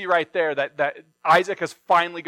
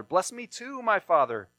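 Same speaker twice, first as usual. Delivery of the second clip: bitter pleading cry; 2 semitones higher than usual. Acted. Esau begs his father Isaac for a blessing, mildly tearful. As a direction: beg your father, a touch of a sob. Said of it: "he cried out with a loud and bitter cry".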